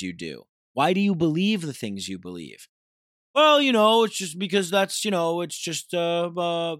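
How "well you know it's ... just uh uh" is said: mock clueless excuse. Mocking how people excuse their habits, high whiny voice. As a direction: mimic the fumbling non-answer.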